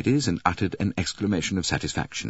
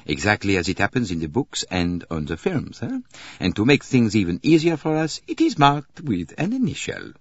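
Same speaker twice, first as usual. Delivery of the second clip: a hint of the detective, rising higher as he goes; Poirot, lightly voiced; 4 semitones higher than usual. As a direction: lightly play an ironic detective. Poirot character in narrated story.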